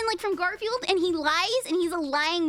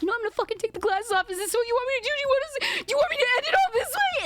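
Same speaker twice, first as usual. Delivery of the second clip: mock dramatic threat; 12 semitones higher, faster than usual. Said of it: "He's like".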